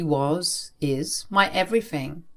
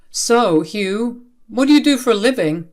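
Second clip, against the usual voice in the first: louder parent's pointed question; probing parent; 4 semitones higher, 6 dB louder than usual. A narrator's reading. Parent questioning daughter's boyfriend at family dinner, probing. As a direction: put the boyfriend on the spot.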